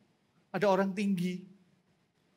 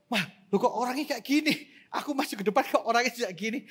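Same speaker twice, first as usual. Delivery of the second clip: retold bewilderment; 4 dB louder than usual. Retelling shock at odd neighbour.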